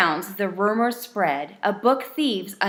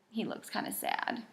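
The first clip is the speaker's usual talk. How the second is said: whispering; 14 dB quieter than usual. Real, not acted. Aside to the listener.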